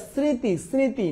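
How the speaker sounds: স্মৃতি with the vowel sounded through the nose; nasal স্মৃতি. Shown as a demonstration. Teacher showing students the chandrabindu sound, nasalised স্মৃতি. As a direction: let স্মৃতি ring in the nose, M not pronounced. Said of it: "নাকে বাজে উচ্চারণ হবে".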